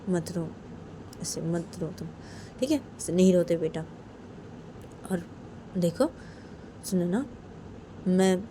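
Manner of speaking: lightly voiced coaxing father; tender father. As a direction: coax the crying daughter gently. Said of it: "Sunaina के पापा सुनैना को बोलते कि".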